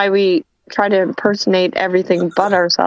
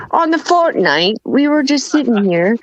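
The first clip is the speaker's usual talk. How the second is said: mock British accent; 3 semitones higher than usual. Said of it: "then I'm gonna be like".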